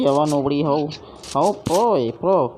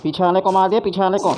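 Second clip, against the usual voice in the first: higher and louder, urgent battle call; excited callout; 5 semitones higher, 4 dB louder, faster than usual. Real, not acted. Gamer yelling a kill update to his teammate, excited. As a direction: shout it out as the kill lands.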